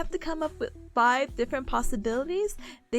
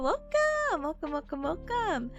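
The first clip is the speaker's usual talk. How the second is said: cute anime streamer; 3 semitones higher, slower than usual. Acted. Streamer greeting in a sing-song voice.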